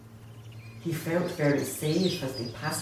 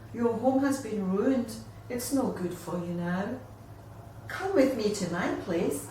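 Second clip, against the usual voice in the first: reassuring friend. Acted. She reassures the wombat.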